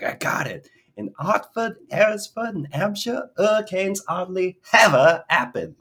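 loud, very high, triumphant Cockney with dropped H's; gleeful hammed-up Cockney, H punched onto "ever"; joyful Cockney imitation. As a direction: belt it out like an overjoyed Cockney pupil. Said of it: "saying it with such joy".

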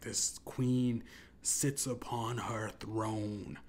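slow, drawn-out announcer voice, a hush before the name; lightly mock a reverb-laden MC; booming announcer. A rapper introducing the queen bee, slow booming announcer. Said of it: "saying that all in that reverb".

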